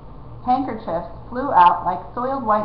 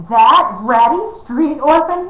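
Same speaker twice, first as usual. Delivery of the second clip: high, loud slow bellow; 6 semitones higher, 7 dB louder, slower than usual. A narrator's reading. Prince bellows at Jemmy in outrage. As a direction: roar it in royal outrage. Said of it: "he bellowed".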